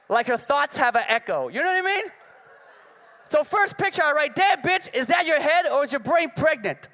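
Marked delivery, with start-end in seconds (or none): 4.3-6.9 high, cocky insult delivery; sassy roast. Retold or imitated. Dad reads the roast he posted on a bully's photo, high and cocky. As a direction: throw the roast with attitude. Reading out his roast comment.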